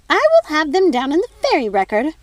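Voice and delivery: a high, loud screech of outrage. Acted. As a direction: screech it at your sister. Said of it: "screeched the fairy godmother".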